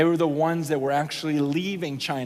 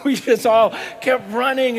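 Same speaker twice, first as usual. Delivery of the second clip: laughing; 5 semitones higher, 7 dB louder than usual. Real, not acted. Laughing retelling the escape.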